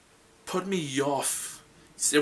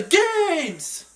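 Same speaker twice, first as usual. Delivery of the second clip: high shouted word with a real voice crack; 7 dB louder than usual. Real, not acted. Host yelling the tournament name, voice cracking. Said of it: "My voice just cracked".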